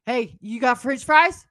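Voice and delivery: put-on slow, drawn-out drunken begging for food; drunk character. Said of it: "Yeah, get into drunk".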